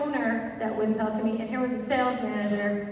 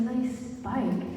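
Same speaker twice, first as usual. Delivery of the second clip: incredulous echo; 5 dB quieter than usual. Retold or imitated. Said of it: "I said".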